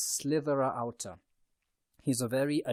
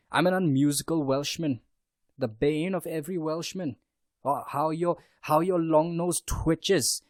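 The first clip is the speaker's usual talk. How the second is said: put-on light Welsh accent as Howl, louder, slowing on the last line; 3 semitones higher, 5 dB louder than usual. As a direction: play the vain Welsh wizard in a Welsh accent. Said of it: "you hear me with a Welsh accent".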